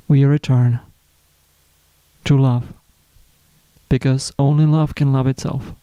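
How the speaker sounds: unhurried spiritual reflection, long pauses between phrases; guided meditation. Acted. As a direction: let each phrase settle before the next. Leads a self-love reflection.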